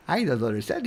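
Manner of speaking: normal talking voice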